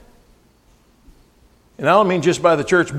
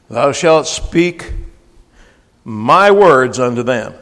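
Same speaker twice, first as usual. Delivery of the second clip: slow emphatic scripture; 4 semitones lower, 3 dB louder, much slower than usual. Acted. Preacher slowly stressing God's instructions to preachers. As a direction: draw each word out slowly and weightily.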